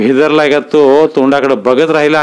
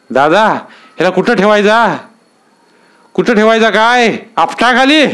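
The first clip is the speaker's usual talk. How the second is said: rough eager question; 8 semitones higher than usual. Acted. Brothers holding the fisherman ask Dada, rough and eager. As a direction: ask gleefully whether to drop him.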